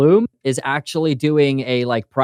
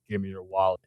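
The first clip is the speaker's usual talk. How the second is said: mugger voice; 5 semitones lower, 11 dB quieter than usual. Retold or imitated. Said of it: "heard your voice in a dark alley".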